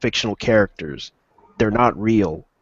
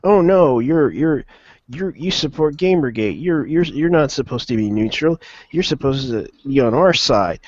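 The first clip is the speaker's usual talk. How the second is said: higher-pitched imitation of scolding partisans; put-on protest, pitched up; mock indignant objectors; 5 semitones higher than usual. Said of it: "now the other side's like".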